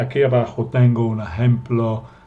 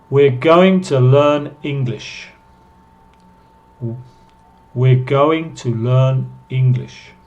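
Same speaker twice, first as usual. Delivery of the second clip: clear model reading; 3 dB louder than usual. Shown as a demonstration. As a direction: read it out for students to repeat. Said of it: "para que ustedes puedan escuchar". (lectura modelo clara para practicar)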